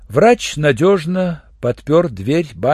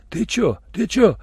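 a mildly higher, startled repeat; frightened; 8 semitones higher than usual. A narrator's reading. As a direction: jump at it, nervously. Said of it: "снова испугался седой негр". (с лёгким испугом)

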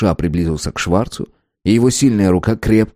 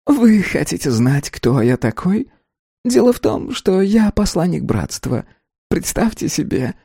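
preen smugly in a raised voice; insinuating little man; 8 semitones higher than usual. A narrator's reading.

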